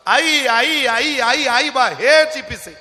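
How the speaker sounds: put-on high, loud crying calls of a lost child; wailing for mother. Lost boy at the fair wails for his mother, crying loudly. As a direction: cry out for your mother, rising and desperate. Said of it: "आकांड तांडव त्या पोराचा रडत होतं".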